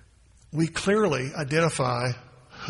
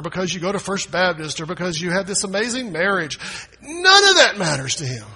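shouting, high and loud; full-force preaching; 4 semitones higher, 6 dB louder than usual. Acted. Preacher shouting to the church that God claims them. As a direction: preach it out at the top of the voice.

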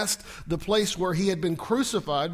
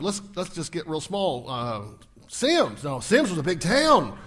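ordinary talk, nothing marked

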